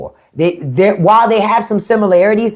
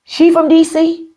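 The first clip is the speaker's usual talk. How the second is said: surprised question; 10 semitones higher than usual. Retold or imitated. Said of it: "I said".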